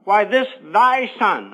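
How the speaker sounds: slow, drawn-out disdain on "thy son"; sarcastic. Acted. Older brother to his dad about the prodigal, sarcastic. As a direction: stretch it out with scorn. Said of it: "I think he said it sarcastically".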